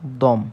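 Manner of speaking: উদ্যম split into উদ and দম; syllable demonstration. Shown as a demonstration. Teacher showing the doubled দ, উদ্যম syllable by syllable. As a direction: sound out both দ sounds in উদ্যম with a pause between. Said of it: "তাহলে কী হবে?".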